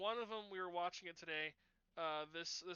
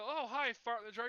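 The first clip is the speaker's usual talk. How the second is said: higher, louder teasing hello; mock teasing greeting; 5 semitones higher, 6 dB louder than usual. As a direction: greet him like a taunting schoolkid. Kids teasing Martin.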